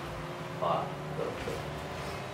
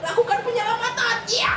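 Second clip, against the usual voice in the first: shouting. Real, not acted. Urging a save in game.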